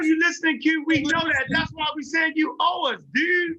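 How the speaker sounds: exasperated shout. Real, not acted. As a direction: push back hard at him. Arguing loudly back at Q.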